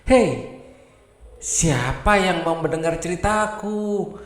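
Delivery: calling out. Acted. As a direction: shout out hoping someone will listen. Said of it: "dia teriak".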